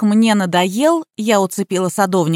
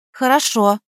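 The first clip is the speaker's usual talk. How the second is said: parroting; 2 semitones higher than usual. A narrator's reading. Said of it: "заорал Иван".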